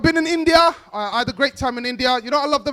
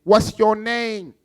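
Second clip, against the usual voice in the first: slow, drawn-out question; lightly mocked street youth; imitated youth chat-up; much slower than usual. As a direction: stretch it out like a lad chatting someone up.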